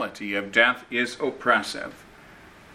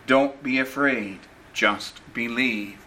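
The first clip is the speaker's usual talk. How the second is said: tender reassurance. Retold or imitated. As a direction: gently reassure a frightened listener. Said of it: "tenderly say to us".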